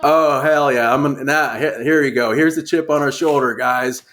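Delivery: laughing mock eagerness. Retold eager manager, laughing.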